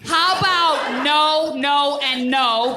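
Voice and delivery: firm mom refusal. Acted. Mom refusing son's outfit.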